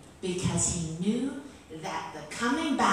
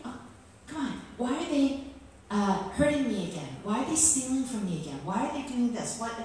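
mildly exasperated, higher-pitched plea; retold exasperation; 5 semitones higher than usual. Retelling a prayer to God about repeated hurts, exasperated. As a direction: complain in a higher, put-upon voice.

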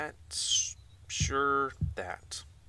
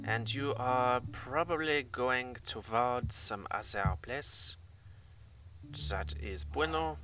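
mock German accent drifting into Spanish. Gamer commenting on the map, in a drifting German-Spanish accent. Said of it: "went from German to Spanish".

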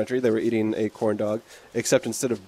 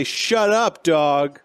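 quoting the phrase; 4 semitones higher, 4 dB louder, much slower than usual. Retold or imitated. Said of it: "You just say".

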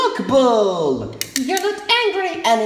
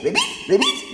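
frog croak; much faster than usual. Pretend. Child playing frog croaking.

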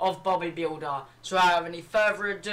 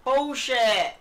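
drawn-out disbelieving yell; outraged shout; 5 semitones higher, 5 dB louder, much slower than usual. Real, not acted. Outraged at game.

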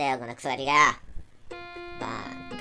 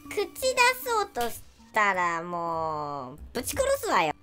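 put-on mean girl; 3 semitones higher, 5 dB louder than usual. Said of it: "こういう女子いるよね".

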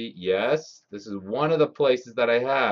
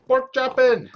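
high, loud gleeful squeal; excited squeal; 9 dB louder than usual. Real, not acted. Gamer swinging his pork chop sword, squealing with glee. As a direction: shriek it out in delight.

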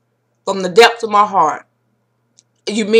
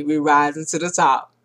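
much softer and lower, like an afterthought; quiet echo; 5 semitones lower, 7 dB quieter than usual. Real, not acted. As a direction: let the slogan fade out. Closing the video, winding down.

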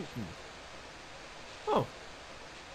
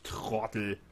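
loud mocking laugh at an enemy; gloating taunt; 6 dB louder, slower than usual. Real, not acted. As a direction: jeer at him, laughing. Taunting a drowning zombie. (hämisch spottend)

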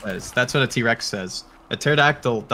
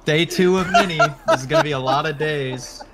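laughing teasing; 4 semitones higher, 3 dB louder than usual. Real, not acted.

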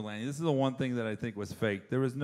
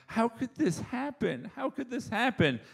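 mock whining; 8 semitones higher, 4 dB quieter than usual. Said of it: "crying and going".

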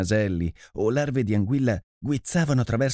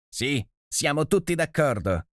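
impatient; 6 semitones higher than usual. A narrator's reading. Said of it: "rispose con impazienza".

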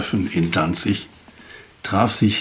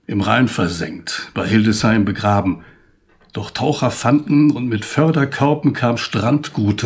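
poem recital. Acted. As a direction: carry the verses with a lifted, rhythmic recital voice. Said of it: "Und ich trage Ihnen das Gedicht jetzt vor". (feierlicher Gedichtvortrag)

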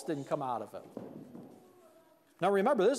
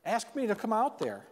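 higher, mildly eager imitation; excited plea; 4 semitones higher than usual. Peter asking Jesus to call him out, mildly excited. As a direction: act out an eager request. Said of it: "he's so excited, he says".

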